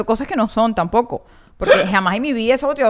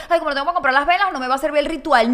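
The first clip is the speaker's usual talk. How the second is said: mock whiny complaint; 3 semitones higher, faster than usual. Mocking a complaining listener.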